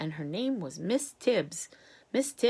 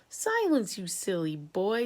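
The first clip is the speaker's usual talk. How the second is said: stern rebuke; slower than usual. Acted. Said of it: "said Miss Tibbs".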